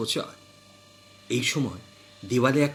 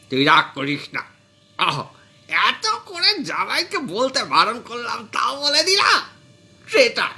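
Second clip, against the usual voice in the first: put-on like a caught child; 8 semitones higher than usual. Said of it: "চুরি করে ধরা পড়া বাচ্চার মতো বললেন".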